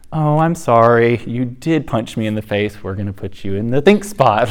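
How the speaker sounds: a gentle mom, lightly imitated; sweet parent. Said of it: "I'm usually pretty sweet about it".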